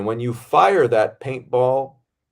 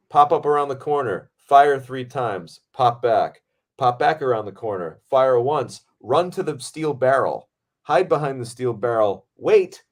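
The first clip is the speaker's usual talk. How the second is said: recited stunt blocking; 3 semitones higher, 3 dB louder than usual. Retold or imitated. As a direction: separate punchy commands, each falling at the end. Recites the choreographed stunt instructions.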